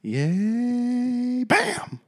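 high, squeaky overexcited cheer; mock cheer. Boss cheering Pam mid-sentence, squeaky mock cheer. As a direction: cheer her name like a goofy boss. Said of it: "he's like".

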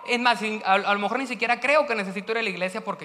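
a churchgoer bragging about being good; self-righteous. Acted. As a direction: puff yourself up as the good one.

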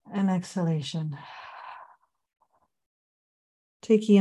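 unhurried meditation guide, long pauses between phrases; measured body-scan guidance with room to breathe; guided meditation. Acted. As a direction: lead them gently through a body scan, phrase by phrase.

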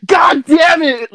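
slow, high, loud mock yell; frustrated dad. Dad seeing the pills spat out, retold furious yell. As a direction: drag out an exasperated curse, imitating dad. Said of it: "he got so frustrated".

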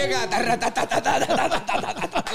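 rapid "ta-ta-ta" rattle climbing in pitch; imitated machine rattle. Joker mimics the machine that flattens streets, rattling noise. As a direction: mimic a pounding road machine.

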